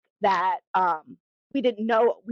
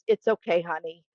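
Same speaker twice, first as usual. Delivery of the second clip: imitating husband's comfort; 4 semitones lower than usual.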